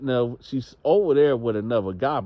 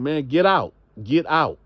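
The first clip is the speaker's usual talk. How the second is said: security yelling; 4 semitones higher, 4 dB louder than usual. Acted. Security throwing him out.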